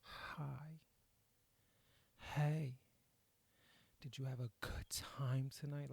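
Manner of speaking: breathy intimate morning whisper; airy whisper. Retold or imitated. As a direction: whisper it with lots of air, like in bed. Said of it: "has a lot of air in that shit".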